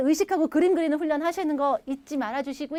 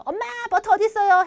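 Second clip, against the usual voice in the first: put-on higher childlike question to mom; child asking mom; 7 semitones higher, 4 dB louder than usual. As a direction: play a kid asking mom for the butter. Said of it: "우리 엄마한테도 이런 거 잘 물어보죠".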